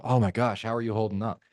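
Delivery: sincere sympathetic check-in; concerned tone. Shown as a demonstration. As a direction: ask gently, with real care. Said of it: "two completely different tonalities".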